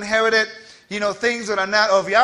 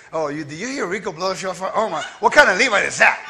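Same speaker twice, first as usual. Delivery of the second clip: imagined gossiping critics. Acted. Congregant gossiping about his shofar blowing, mock disapproval. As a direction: mimic a scandalized onlooker, lightly hammed up.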